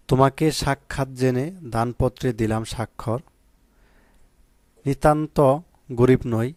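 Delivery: slow poetry recital in standard Bengali; measured, carefully pronounced poem reading; poem recitation. Shown as a demonstration. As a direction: recite the verse slowly, with long pauses between phrases. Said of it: "প্রমিত উচ্চারণ বাছাইকৃত".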